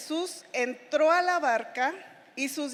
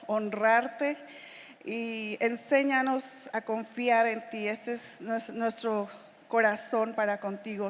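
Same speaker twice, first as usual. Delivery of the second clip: closing prayer. Acted. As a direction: pray to the Lord with devotion.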